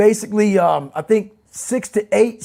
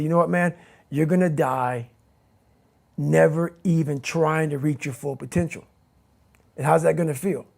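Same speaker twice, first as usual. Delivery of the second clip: voice in head; 3 semitones lower, 5 dB quieter than usual. Retold or imitated. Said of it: "The voice in my head said".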